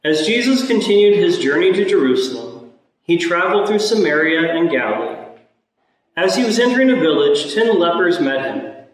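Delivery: solemn scripture reading from the pulpit; Gospel reading. Acted. Priest proclaims the Gospel reading.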